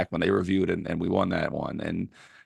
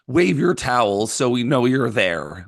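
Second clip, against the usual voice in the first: mocking announcement; 3 semitones higher, slower than usual. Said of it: "they're telling fans, like".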